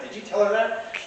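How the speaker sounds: high imitation of a taken-aback lady; mock disbelief. Lady questioning the pirate about the girl, taken aback. Lady's shocked question to him.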